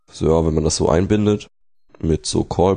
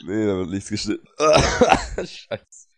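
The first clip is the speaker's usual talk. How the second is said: choking on a drink; 3 semitones higher than usual. Real, not acted. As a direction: still coughing, voice strained. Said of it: "Ich hab mich grad verschluckt".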